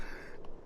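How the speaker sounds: soft voiceless snicker; quiet chuckle. Real, not acted. Amused by friend's line about parents, soft chuckle. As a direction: laugh softly on the breath. Laughs after retelling friend's comeback.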